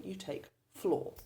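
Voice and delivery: "fluor" said slowly as one clipped syllable; slow syllable demo. Shown as a demonstration. Teacher showing how to cut "fluor" from "fluorine", said slowly. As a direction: pull "fluor" off the word and say it slowly on its own. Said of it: "first syllable of the name of the non-metal".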